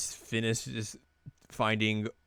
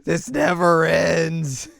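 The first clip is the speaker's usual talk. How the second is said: loud, high, drawn-out mock wail; slow, theatrical cry of despair; mock exasperation; 6 semitones higher, 9 dB louder, slower than usual. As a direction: imitate a fed-up friend, hammed up. Imitating friend's exasperated texts.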